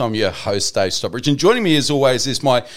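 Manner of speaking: podcast host intro. Real, not acted. Host welcomes listeners and introduces his co-host, showman style. Host's show opening.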